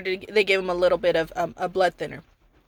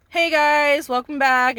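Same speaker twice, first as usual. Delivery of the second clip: higher-pitched, playful welcome back; retold chirpy, jokey hello; joking greeting; 6 semitones higher, 4 dB louder, slower than usual. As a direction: imitate hospital staff greeting with lighthearted cheer. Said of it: "just joking around".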